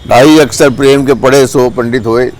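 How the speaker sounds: slow, measured verse recitation; slowly intoned verse; couplet recitation. Acted. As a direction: recite the couplet with drawn-out words. Recites a well-known couplet.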